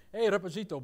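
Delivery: "Reposito" with a Spanish "-ito" ending; lightly mock-Spanish call; Spanish-style Portuguese. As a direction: imitate father making it sound Spanish. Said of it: "my father put it with, like, a Spanish".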